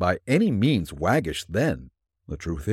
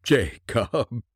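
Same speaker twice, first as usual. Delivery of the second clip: imploring. Acted. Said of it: "he said imploringly".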